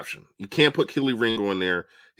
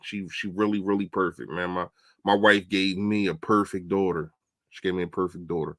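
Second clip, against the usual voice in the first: ordinary delivery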